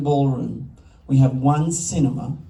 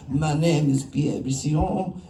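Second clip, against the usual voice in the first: slow, mock German accent on a French name; imitating a German-accented festival official; slower than usual. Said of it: "I don't know why he sounds German".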